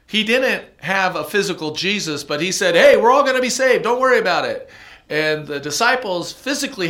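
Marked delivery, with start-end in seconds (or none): 0.0-4.7 retold friend. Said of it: "He goes".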